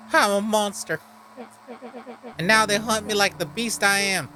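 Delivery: lightly voiced brooding outcast; a hint of a bitter cursed creature; bitter monster voice. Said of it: "that's the voice I gave him".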